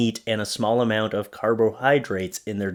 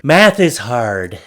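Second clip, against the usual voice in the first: deadpan sarcasm; 7 dB louder, slower than usual. Acted. Sarcastic quip on sugar mistake.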